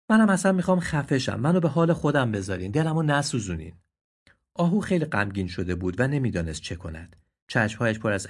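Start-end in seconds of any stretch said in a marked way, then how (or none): 0.1-3.7 higher, desperate plea; upset deer. Acted. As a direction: leave me be, hurting. (آهوی دلشکسته)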